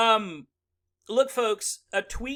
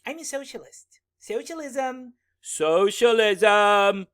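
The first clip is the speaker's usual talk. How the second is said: mock socialist; 3 semitones higher, 5 dB louder than usual. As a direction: drone the word like a slogan. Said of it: "people that run around go".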